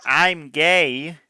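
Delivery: high, loud shouted quote; iDubbbz yell. Retold or imitated. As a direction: belt it out like a meme shout. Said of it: "You're talking about iDubbbz going".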